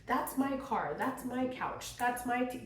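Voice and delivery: clingy divorcee. Retold or imitated. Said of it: "you're like".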